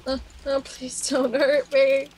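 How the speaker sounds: slow, pleading mock terror; terrified horror victim. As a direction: beg for your life, drawn out. Begging the other player.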